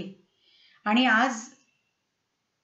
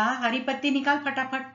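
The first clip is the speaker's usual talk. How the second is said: mimicking the hijra; 3 semitones higher than usual. Manjiri mimicking the hijra to tease Abhay, lightly mocking. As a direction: tease him by copying her. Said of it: "तिची नक्कल करत मंजिरी म्हणाली".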